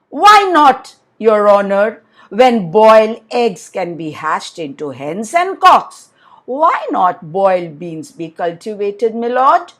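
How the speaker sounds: a hint of a sly man turning the logic back; clever retort. Amin turns the judge's logic back on him, pointedly.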